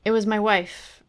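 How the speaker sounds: light emphasis landing on "wife"; stress on last word. A narrator's reading. Narrator answering Sandy about the phone call, stressing "wife". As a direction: lean on the final word "wife". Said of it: "emphasis on the last word".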